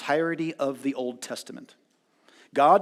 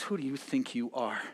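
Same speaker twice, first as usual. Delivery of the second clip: Job's outburst; 7 semitones higher, 10 dB louder, faster than usual. Retold or imitated. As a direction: let Job's anger swell into a yell at his friends. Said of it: "And Job says".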